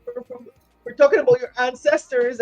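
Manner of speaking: high, loud sanctimonious scolding; mock outraged churchgoer damning her; mocking preachy Christian. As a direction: ham up a hellfire preacher condemning her. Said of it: "the Christians that be like".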